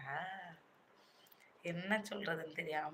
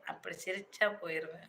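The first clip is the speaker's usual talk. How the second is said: talking, then breaking into a laugh; can't hold the laugh in; real uncontrolled laughing. Real, not acted. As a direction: let a helpless laugh spill out after the words. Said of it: "சிரிப்பெல்லாம் என்னால control பண்ண முடியாது".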